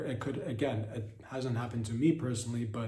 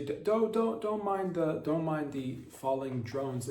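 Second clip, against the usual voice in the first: mock soothing parent; 6 semitones higher than usual. Parents distracting crying children, high hammed-up hush. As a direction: play the parent hushing a crying kid, pitched way up. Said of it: "and say".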